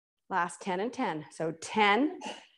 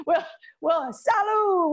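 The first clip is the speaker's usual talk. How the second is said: laughing toast; 8 semitones higher, 4 dB louder, slower than usual. Real, not acted. Laughing toast after finishing.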